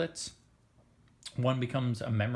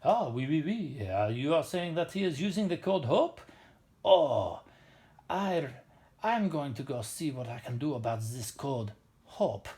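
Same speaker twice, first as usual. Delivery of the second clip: sing-song, hammed-up French accent; bad French accent. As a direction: play a comically bad Frenchman. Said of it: "We'll make him French".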